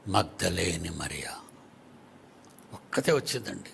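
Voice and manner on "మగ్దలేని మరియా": hushed whisper; a soft whispered reply. Real, not acted. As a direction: breathe the name softly. Whispered answer in sermon.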